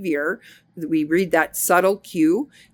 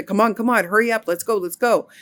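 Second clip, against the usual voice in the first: hurrying; 4 semitones higher, faster than usual. Retold or imitated. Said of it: "ingrained in me as a child".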